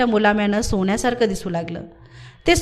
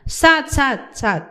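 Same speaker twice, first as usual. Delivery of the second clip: much higher, worn-out pleading guess; exhausted boy under a rider; exhausted cry; 5 semitones higher than usual. A narrator's reading. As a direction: gasp the numbers, at the end of his strength. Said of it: "मेटाकुटीला साधू म्हणाला".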